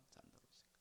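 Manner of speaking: 잔다 그랬을까 whispered without voice; whispered repeat. Shown as a demonstration. Preacher repeating to the congregation, whispered. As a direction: drop 잔다 그랬을까 to a breathy whisper.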